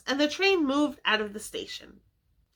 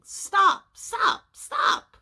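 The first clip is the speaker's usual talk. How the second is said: shouting; 11 semitones higher, 4 dB louder, much slower than usual. A narrator's reading. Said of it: "all shouting the same thing".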